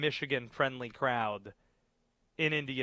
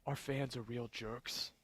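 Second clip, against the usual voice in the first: put-on softer, toned-down Jersey accent; 2 semitones lower, 10 dB quieter than usual. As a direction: subtle New Jersey accent. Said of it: "That's better".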